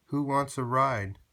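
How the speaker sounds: excited little truck call; cheerful offer. Acted. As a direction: invite everyone along brightly. Blue offers rides.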